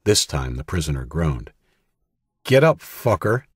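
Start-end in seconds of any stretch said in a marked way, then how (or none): 2.4-3.4 loud, higher furious yell, hit UP; angry shout. Acted. Danny yells at the groaning prisoner at gunpoint, furious shout. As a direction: spit it at him like a threat.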